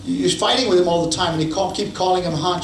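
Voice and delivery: a hint of a baffled counselor; puzzled counselor. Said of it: "So the counselor says".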